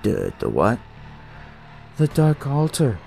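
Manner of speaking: lightly voiced kid, urgent and solemn; a hint of a shaken cult kid; creepy cult kid. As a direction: warn him gravely like a young priest.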